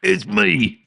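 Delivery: high, cheerful Cockney henchman; Cockney accent. Acted. A demon minion announcing himself, high Cockney voice. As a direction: pop in with a Cockney grin. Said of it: "can't get out of the Cogni".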